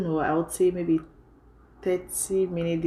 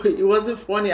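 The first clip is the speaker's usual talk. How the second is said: laughing while saying it; can't hold back a laugh; 4 semitones higher, 4 dB louder than usual. Real, not acted. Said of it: "I'm laughing now".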